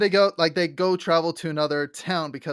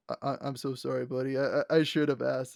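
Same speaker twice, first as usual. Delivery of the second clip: softer, lower stammered apology; mock Grog apology; 4 semitones lower, 5 dB quieter than usual. Grog apologizing to Scanlan, soft stammer. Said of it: "Grog's like".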